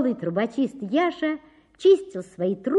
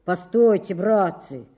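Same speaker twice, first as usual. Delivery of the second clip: firm declaration; 5 dB louder than usual. Acted. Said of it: "заявил трубочист".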